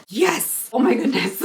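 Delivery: high relieved cheer; thrilled at finding it; excited. Real, not acted. Finds bronzer, relief.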